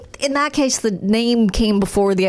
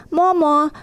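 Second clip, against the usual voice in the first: higher mock little-kid voice; imitated baby talk; 5 semitones higher than usual. Mimicking a kindergarten mom quoting her daughter, baby talk. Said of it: "would talk like that".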